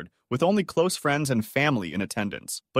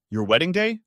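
bitter; 7 semitones higher, 3 dB louder than usual. A narrator's reading. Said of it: "Karen laughed bitterly".

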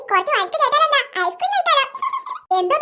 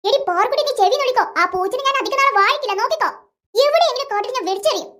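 mock threat; 3 semitones lower than usual. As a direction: lower boy voice, sulky threat to sister. Boy Keshu threatens sister. (ചേട്ടന്റെ പരിഭവം നിറഞ്ഞ ഭീഷണി)

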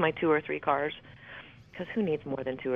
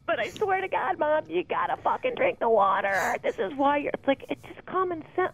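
higher, pleading exasperation at mom; exasperated venting; 12 semitones higher than usual. Real, not acted. Speaker pleading with her mother to drink water, higher and exasperated. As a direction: throw your hands up, fed up with her stubbornness.

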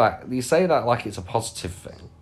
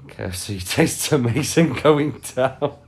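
laughing; 3 semitones higher, 3 dB louder than usual. Real, not acted. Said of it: "that's gonna be in the quote".

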